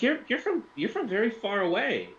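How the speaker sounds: high-pitched woman's voice, accent slipping; high feminine voice with barely any accent; failed female Russian voice. Shown as a demonstration. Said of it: "then it's just not gonna work".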